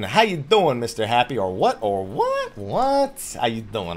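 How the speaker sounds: mock Jersey accent, pitch swinging; hammed-up New Jersey "what, what?". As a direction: put on a joking Jersey greeting. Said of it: "that's not how you type a Jersey accent".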